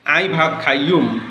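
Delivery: "আই ভাত খাইয়ুম" in Noakhali dialect, আই for আমি. Shown as a demonstration. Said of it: "তাদের আঞ্চলিক ভাষায় বলে".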